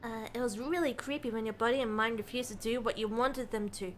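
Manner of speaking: measured first-person narration, softening as it goes; understated storytelling voice; story narration. A narrator's reading. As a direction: read the memory like a subdued narrator. Reads game narration aloud between chat.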